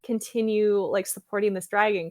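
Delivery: half-hearted imitation of yelling back; mild mock yell. Falling rider yelling back to his dragon, mild mock yell. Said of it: "Lawrence is yelling back to Temeraire".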